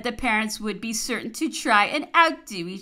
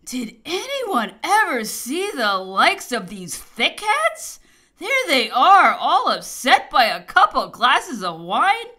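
indignant outburst, raised in pitch and volume; great wrath; 4 semitones higher, 6 dB louder than usual. A narrator's reading. Emperor berating his drunken Dutch soldiers, wrathfully. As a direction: rail loudly at them in slow, swooping exasperation. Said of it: "was in a great wrath and said".

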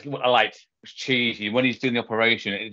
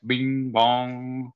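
drawn-out mock bing bong; imitated sound effect; 3 semitones higher than usual. Friend mocking an old episode's sound effects, imitated bing bong. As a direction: mimic a cheesy sound effect. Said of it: "the great sound effects".

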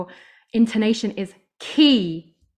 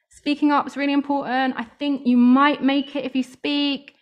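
higher, hesitant and doubtful, as if unsure of herself; timid, half-hearted pitch; unconvincing demo; 4 semitones higher than usual. Shown as a demonstration. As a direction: mumble it like you don't believe it. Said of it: "Do you see the difference?".

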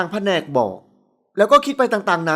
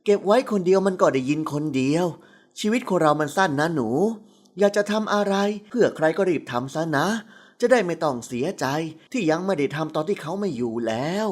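put-on lower, gentle old woman's voice; a lightly voiced elderly lady giving advice; 5 semitones lower, 4 dB quieter than usual. A narrator's reading. Old woman gently urging the girl, lower and soft.

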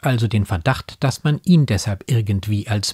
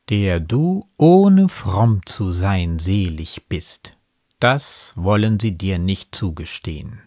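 slow, measured poem recitation; Gedichtvortrag; slower than usual. A narrator's reading. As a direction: recite the verse slowly, letting each line settle. Quotes the poem's closing verse. (getragen vorgetragenes Gedicht)

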